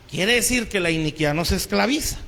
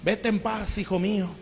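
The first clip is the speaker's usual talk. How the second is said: Saul's tearful words, retold in a softer voice; a hint of a weeping king, softer; softer mock weeping; 5 dB quieter than usual. Weeping Saul forgives David, retold softly. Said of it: "empieza a llorar y dice".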